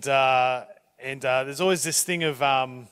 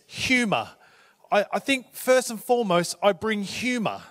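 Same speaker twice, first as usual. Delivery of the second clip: a mild imitated English accent, a bit higher; lightly put-on English accent quoting the boss; 5 semitones higher than usual. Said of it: "that was my English accent".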